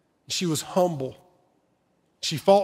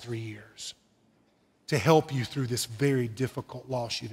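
gentle; 4 semitones lower than usual. Retold or imitated. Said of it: "in a very gentle".

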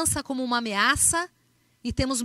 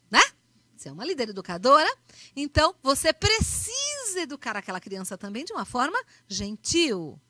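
put-on gentle, affectionate request to a child; a lightly voiced caring mother; speaking kindly. Shown as a demonstration. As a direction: coax the kid kindly, no scolding. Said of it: "Então você vai falar com carinho".

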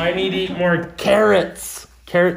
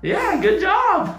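laughing; 13 semitones higher, much slower than usual. Real, not acted. Praising during eye test.

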